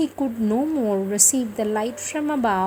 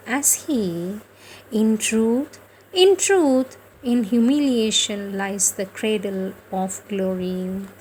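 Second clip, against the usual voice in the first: measured scripture reading, each phrase set apart; devotional reading. Acted. Devotional reader to listeners, a measured scripture reading. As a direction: read the holy words out with reverence. Rereads the Mother's words aloud.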